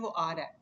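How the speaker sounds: "आ रहा है" run together, reduced to aa-ra-e; everyday slurred "आ रहा है", syllables merged; fluent casual Urdu. Shown as a demonstration. Teacher showing how fluent Urdu speakers talk, "आ रहा है" contracted. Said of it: "जिस तरह हम उर्दू बोलते हैं".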